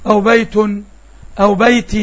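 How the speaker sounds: بيت ending in an audible nun sound each time; بيت with the final nun clearly sounded; nunation demo. Shown as a demonstration. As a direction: sound out the tanween on بيت as "bayt-in, bayt-un". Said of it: "أدي عندي تنوين بأشكاله الثلاثة".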